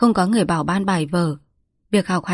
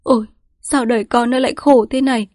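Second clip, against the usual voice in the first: cao giọng ai oán; than thở; 5 semitones higher, 3 dB louder than usual. A narrator's reading. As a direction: than trời cho con. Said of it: "than thở". (mẹ than thở với con)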